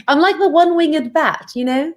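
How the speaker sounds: animated, self-mocking British vampire; comic British accent with some laughter. One-winged bat describes its clumsy flight, British accent. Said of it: "my British accent".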